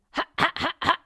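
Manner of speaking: teacher layers distortion on glottal ha, gritty; distorted ha. Shown as a demonstration. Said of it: "the distortion on top of that".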